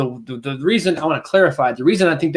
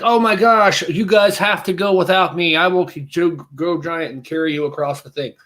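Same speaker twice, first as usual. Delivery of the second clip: mimicking Hope; 4 semitones higher than usual. Friend retelling Hope's sacrifice line, mock heroic. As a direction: play Hope bravely sacrificing herself. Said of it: "when Hope is like".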